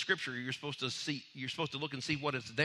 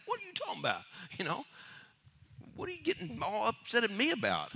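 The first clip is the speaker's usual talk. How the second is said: snapping back; 7 semitones higher than usual. Pretend. Preacher snaps back at disciples.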